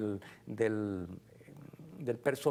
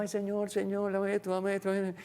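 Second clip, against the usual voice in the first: begging prayer; 5 semitones higher than usual. Retold or imitated. Mock prayer begging for things.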